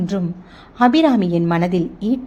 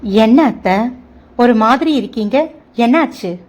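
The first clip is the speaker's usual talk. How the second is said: worried concern; 3 semitones higher, 5 dB louder than usual. Acted. Daughter-in-law worried about mother-in-law.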